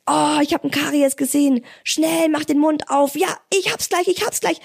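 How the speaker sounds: high, fast playful hunt; playful excited mom. Acted. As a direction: chase the cavity with the kid. Playful caries hunt game.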